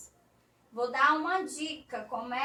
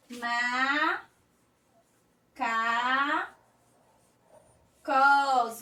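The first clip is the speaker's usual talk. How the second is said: "Ma, ca, cos" split into separate syllables with pauses, the last one louder; 4 dB louder, much slower than usual. Shown as a demonstration. Teacher spelling out macacos for children, syllable by syllable. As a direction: sound out "Ma, ca, cos" one beat at a time. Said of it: "Começa com a sílaba ma".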